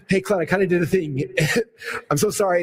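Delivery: laughing, caught out, to the wife; sheepish laughing apology. Retold or imitated. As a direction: apologize through a guilty laugh.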